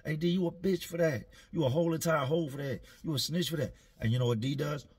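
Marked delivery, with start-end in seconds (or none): 0.0-1.3 yelling down. Retold or imitated. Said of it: "dudes start yelling down". 1.5-3.7 yelling down. Retold or imitated. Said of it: "dudes start yelling down".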